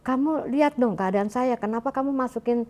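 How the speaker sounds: retold harsh scolding. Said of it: "Maksudnya agak keras gitu kan".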